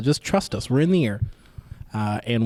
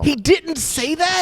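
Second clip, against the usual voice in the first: surprised; slower than usual. Real, not acted. Surprised at the story.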